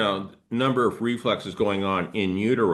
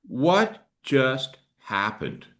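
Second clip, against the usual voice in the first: slow, halting puzzlement; a touch of stunned disbelief, word by word; acted bewilderment; slower than usual. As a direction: play someone slowly taking in a shock. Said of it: "Then you're going".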